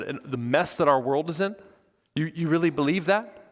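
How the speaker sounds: mildly indignant string of questions; upset disbelief. Retold or imitated. Pharisees challenging the servants about Jesus, mildly upset. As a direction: act out disbelief with a touch of upset.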